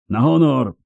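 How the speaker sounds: put-on high, crowing young knight; youthful crowing. A narrator's reading. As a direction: crow it out in a youthful voice. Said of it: "zapiał młodzieńczym głosem drugi".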